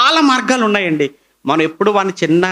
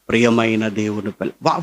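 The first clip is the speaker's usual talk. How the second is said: a hint of a put-on preacher's mic voice, lower and softer; mock pulpit voice; 7 semitones lower, 4 dB quieter than usual. Preacher mocking how some preachers change voice at the mike, lightly put-on pulpit tone. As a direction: lightly mimic a preacher turning solemn at the mike. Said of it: "voice మార్చేస్తాడు".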